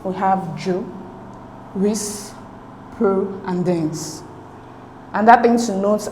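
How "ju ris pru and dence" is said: "ju, ris, pro, and dens" as separate beats with pauses; syllable by syllable. Shown as a demonstration. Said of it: "divide the words up into syllables".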